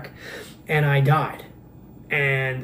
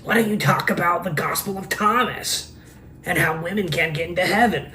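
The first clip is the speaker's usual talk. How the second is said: mocking commenters; 2 semitones higher than usual. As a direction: needle him like a pestering online commenter. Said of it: "They say these things".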